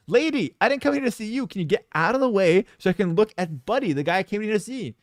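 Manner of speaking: put-on boy telling the employee to move, indignant and high; pissed-off retort. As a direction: snap back, annoyed and high. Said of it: "I'm pissed".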